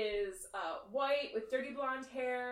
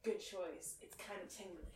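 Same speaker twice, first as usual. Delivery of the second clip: quiet approval; 5 semitones lower, 11 dB quieter than usual. Acted.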